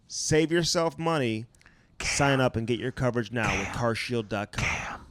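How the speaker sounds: slow, deliberate ad read with the number spelled out; sponsor ad read. Acted. Podcast host reads CarShield ad to listeners, slow promo read. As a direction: sell the product, stressing the promo code.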